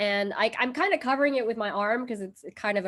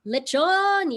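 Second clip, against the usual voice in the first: proud exclamation; 8 semitones higher, 6 dB louder than usual. Real, not acted. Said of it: "proud exclamation of the dish name".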